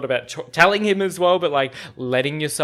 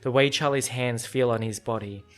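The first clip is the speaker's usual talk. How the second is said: reading a novel aloud. Acted. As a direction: read the passage gently, like an audiobook. Reads a book passage aloud.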